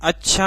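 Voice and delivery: "अच्छा" said as a question. Shown as a demonstration. Teacher showing students a question mark, questioning. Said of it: "और प्रश्नवाचक".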